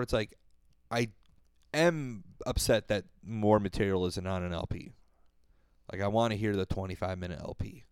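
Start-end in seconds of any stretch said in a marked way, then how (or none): 5.9-7.8 unvoiced wistful whisper; whispered aside. Real, not acted. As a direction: breathe it like a secret wish. Wishful aside about LP.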